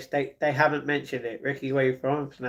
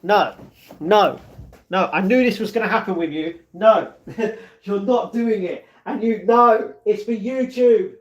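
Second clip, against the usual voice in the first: higher, louder mock scolding voice; hammed-up mock nagging, higher and louder; imitating him; 6 semitones higher, 3 dB louder, slower than usual. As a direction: play the fussing friend telling him no. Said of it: "he's like".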